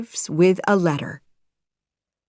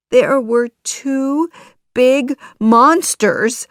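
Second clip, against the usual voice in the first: higher-pitched storybook puppet; lightly voiced Pinocchio; 6 semitones higher, 6 dB louder than usual. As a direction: tell a tall tale in a higher voice. Pinocchio tells fairy tall tale.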